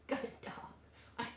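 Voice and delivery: soft unvoiced whisper. Real, not acted. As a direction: whisper to the dog. Whispering to dog.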